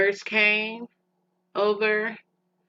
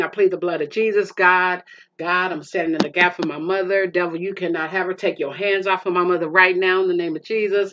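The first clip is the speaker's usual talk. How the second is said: retold prayer. Daughter praying over her dying mother, fervent. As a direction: pray hard against the devil. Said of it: "And I was praying".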